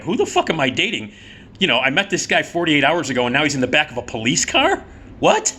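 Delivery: mildly acted incredulous rant, squeaked last word; freaking out. New girlfriend reacts to the arrest, mock freak-out. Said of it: "she's, like, freaking out".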